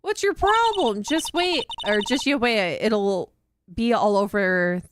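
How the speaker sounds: a light Southern twang, bristling at the cop; Southern accent. Acted. Reporter threatening the detective, light Southern accent. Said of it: "That southern accent could only mean".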